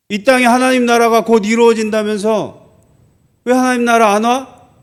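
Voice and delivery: retold jeering at believers; imitated mockery. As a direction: demand answers like a scoffer. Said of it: "이렇게 조롱한 거예요".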